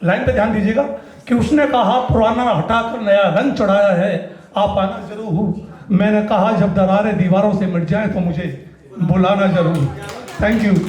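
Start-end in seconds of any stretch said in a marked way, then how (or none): 1.3-10.0 measured verse, falling low on the refrain; stage poet's cadence; poetry recitation. Acted. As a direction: recite with lingering line ends. Recites his poem Makaan.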